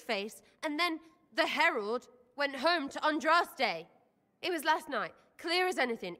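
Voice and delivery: high, tense frightened voice. Real, not acted. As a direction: shaken by a nightmare. Tells vision of partner dead.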